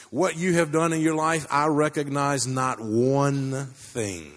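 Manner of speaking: weighty, drawn-out pronouncement; slow right down on the last words, booming judgement; towering voice of God. Retold or imitated. God judging a man outside heaven's gates, towering pronouncement. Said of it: "this voice comes rolling over the walls and comes towering down on him".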